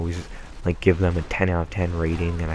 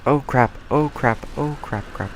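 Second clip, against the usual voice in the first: sudden high startled yelps; panicked oh crap; 7 semitones higher than usual. Real, not acted. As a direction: caught off guard, yelp it. Caught off guard by an enemy.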